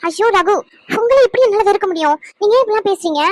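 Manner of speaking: pained wife protesting loudly to her husband; distressed protest. Acted. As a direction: cry out that you could never hate him. Wife hurt by his accusation.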